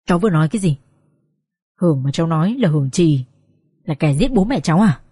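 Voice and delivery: low, measured stunned question; slow, deliberate. Acted. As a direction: ask deliberately, absorbing a shock. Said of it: "Ông Phúc hỏi lại thật chậm rãi".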